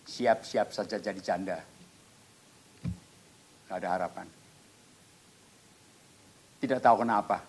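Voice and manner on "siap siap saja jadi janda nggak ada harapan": dokter. Retold or imitated. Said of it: "Dokter Sim bilang".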